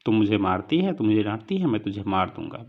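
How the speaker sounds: mock angry yell of a sulking child; mild retold shout at mother. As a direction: act out the boy's threat, a bit heated. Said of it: "बहुत ज़ोर से चिल्लाता है".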